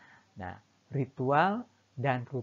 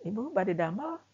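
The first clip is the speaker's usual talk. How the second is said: higher polite Sundanese small talk; friendly Sundanese greeting; 9 semitones higher than usual. Retold or imitated. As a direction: ask a neighbour off to work, pitched up. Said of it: "ada orang yang mau pergi kerja". (sapaan sopan Sunda dengan nada lebih tinggi)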